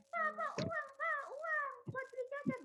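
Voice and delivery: put-on high-pitched, pestering child's call; mock demanding yell. Shown as a demonstration. Child suddenly interrupting Papa for snack money, mock demanding yell. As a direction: nag for it high, without really shouting. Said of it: "jangan tiba-tiba teriak-teriak".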